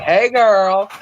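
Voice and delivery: playful, confident flirt; cocky come-on, played for laughs. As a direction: greet them like a smooth charmer. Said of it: "I have a lot of confidence".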